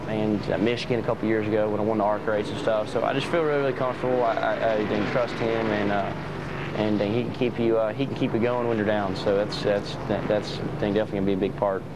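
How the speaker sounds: recorded interview audio; recorded interview clip. Real, not acted. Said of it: "Here's what he had to say".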